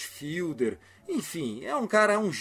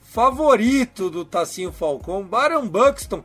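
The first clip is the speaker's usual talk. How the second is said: excited; 4 semitones higher, 6 dB louder than usual. Real, not acted. Excited outcry over injured player.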